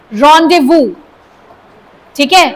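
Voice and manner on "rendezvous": rendezvous as RON-day-voo, silent z and s; teacher giving rendezvous as RON-day-voo, no z; correct rendezvous. Shown as a demonstration. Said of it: "जेड की आवाज नहीं आएगी".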